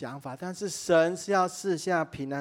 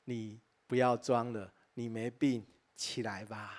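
soft and lower, tenderly reassuring; gentle God voice; 5 semitones lower, 4 dB quieter than usual. Retold or imitated. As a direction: speak as a gentle father telling a child to get up. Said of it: "上帝很温柔的跟他说". (上帝温柔地安慰孩子)

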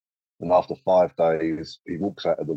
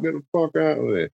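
panicked yell; 10 semitones higher than usual. Retold or imitated. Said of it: "was like".

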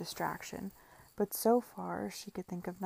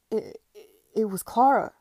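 loud, stammering accusation; panicked stammer bursting into a shout; crying out; 3 semitones higher, 12 dB louder than usual. A narrator's reading. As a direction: blurt the blame out loudly. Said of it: "cried Edward".

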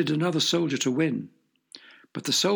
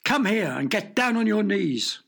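stern command; 5 semitones higher than usual. Acted. King commands kneeling.

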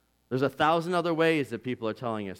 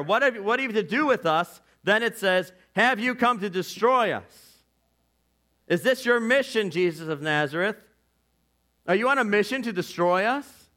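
question of terror; 5 semitones higher than usual. Shown as a demonstration. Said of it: "It's a question of terror".

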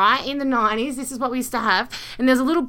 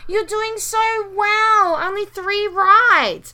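sarcastic; 8 semitones higher, 5 dB louder, slower than usual. Real, not acted. Teasing partner's poor score.

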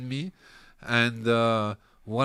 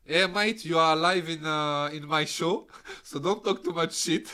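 louder, higher call to a friend; calling a mate, teasing him to behave; loud phone call; 4 semitones higher, 6 dB louder than usual. Real, not acted. Calls friend on live show.

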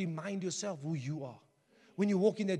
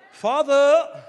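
laughing plea; 5 semitones higher, 14 dB louder than usual. Retold or imitated. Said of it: "if my son must come to me".

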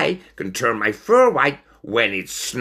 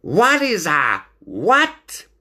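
slow, high-pitched puzzled question; baffled; 11 semitones higher, 4 dB louder, much slower than usual. Acted. Stoat not knowing the word speciality, high and baffled. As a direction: ask it high and slowly, utterly lost.

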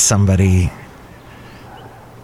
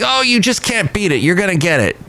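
high-pitched imitation of alarmist news; mock alarmism; 8 semitones higher, faster than usual. Podcaster mimicking ridiculous news claims, mock alarmist. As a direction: exaggerate the dire warning, pitched way up. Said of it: "say the most ridiculous things".

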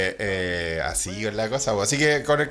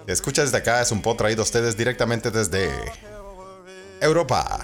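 podcast announcer intro; 2 semitones lower than usual. Acted. Host welcoming listeners from Central Europe, announcer style. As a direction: announce the show grandly, pausing between phrases. Opens the podcast over music.

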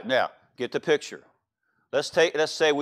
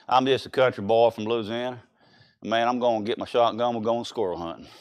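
put-on Southern country accent; 3 semitones lower than usual. Preacher showing how Louisiana folks talk, mock country accent. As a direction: imitate a Deep South country boy. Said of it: "they talk like this".

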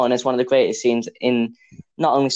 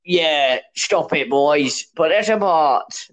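Obi-Wan; much slower than usual. Acted. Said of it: "That's my Obi-Wan impression".

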